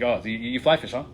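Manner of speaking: a lightly voiced cagey fisherman, not looking at you; sly sideways sizing-up, mildly put on; dodgy fisherman. Stranger at a banquet quizzing the newcomer, lightly voiced dodgy fisherman. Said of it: "He was just, like, this dodgy fisherman".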